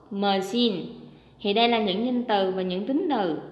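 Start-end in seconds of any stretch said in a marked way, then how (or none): 0.1-0.8 machine with the stress on -CHINE; stress on second syllable. Shown as a demonstration. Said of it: "nó sẽ có trọng âm hai".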